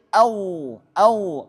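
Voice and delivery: "Au" ending in a held heavy dh; dark sustained close on "Au"; flowing zha. Shown as a demonstration. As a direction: let the thick voiced end of "Au" run on. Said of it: "to yang punya titik".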